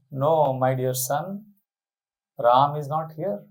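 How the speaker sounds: slow, coaxing reply; slow it down to soothe; a mother slowly calming her son. Acted. Kaikeyi calmly answers grieving son.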